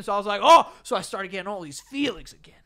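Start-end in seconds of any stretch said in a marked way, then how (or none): 0.4-0.7 a jolt of surprise shouted out; sudden "oh". Retold or imitated. Recalling the moment he saw her, a sharp high oh. 0.8-2.5 hushed whisper. Real, not acted. Confessing old feelings to a friend, whispered. Telling of his feelings again.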